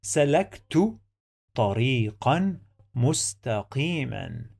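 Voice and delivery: slow, careful Arabic model sentence; slow model reading. Shown as a demonstration. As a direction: read it out slowly as a model for learners. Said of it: "The first sentence is".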